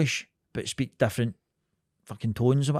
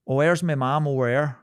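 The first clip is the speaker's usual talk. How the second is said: lightly imitated Port Glasgow accent; a touch of Port Glasgow twang; 3 dB louder than usual. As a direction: mimic a Port Glasgow local. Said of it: "that's how they speak in Port Glasgow".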